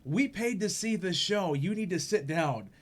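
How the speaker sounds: half-strength imitation of someone yelling; retold yelling. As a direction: imitate an indignant complaint without fully yelling. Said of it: "she yells at me".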